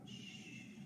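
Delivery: voiceless drawn-out "shh"; hushing "shh" with no vowel; SH sound. Shown as a demonstration. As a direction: sound out "shh" alone, softly. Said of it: "I know S H says".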